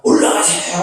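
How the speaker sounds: mild imitated rallying call; revival preacher's cry. Revivalist interrupting his sermon, mild rallying call. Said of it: "막 중간중간에 막".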